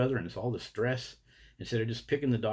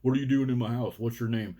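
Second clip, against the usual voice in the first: louder, pushy mock interrogation; mock yelling; 5 dB louder than usual. Human cussing at you in your house, mock yelling. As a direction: yell it at them, half in earnest. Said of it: "yelling at you".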